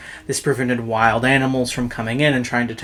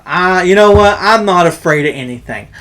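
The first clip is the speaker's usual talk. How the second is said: put-on drunk bravado; 6 dB louder than usual. Drunk's bold boast.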